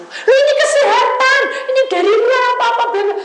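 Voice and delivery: high, loud protesting voice; mock defensive congregant. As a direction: play the caller defending her drink. Menirukan jemaat membela minuman. (membela diri dengan suara tinggi)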